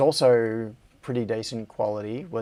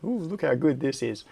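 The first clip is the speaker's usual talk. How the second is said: lightly imitated boast, a little higher on the "ooh"; mock bragging; 3 semitones higher than usual. Streamer mimics Greg showing off solder paste work, lightly bragging. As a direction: play at showing off your handiwork. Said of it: "it's totally bragging".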